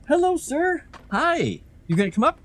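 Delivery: high sing-song greeting to the cat. Real, not acted. Greeting the cat, high baby talk. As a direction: coo hello up high to a pet.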